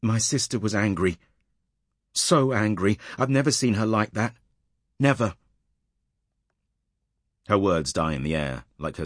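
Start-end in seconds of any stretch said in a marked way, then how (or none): 0.0-5.4 higher, rising in distress to Never; shaken. Acted. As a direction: voice climbing in shock. Shaken woman describes sister's rage.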